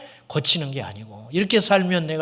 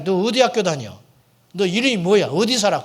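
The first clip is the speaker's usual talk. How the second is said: louder scolding barrage of questions; 3 semitones higher, 7 dB louder than usual. Retold or imitated. Farmer interrogating the boy who kicked stones, scolding loudly. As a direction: fire the questions like an angry adult.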